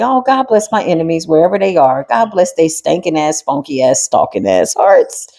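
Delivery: mock-sweet, slowing down; sarcastic blessing. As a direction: bless them with a sneer, dragging it out.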